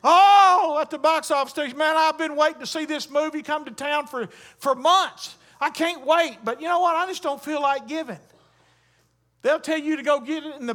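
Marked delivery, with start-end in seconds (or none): 0.0-8.2 mock eager moviegoer. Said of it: "Show up at the movie theater".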